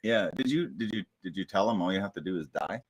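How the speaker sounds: ordinary talk, nothing marked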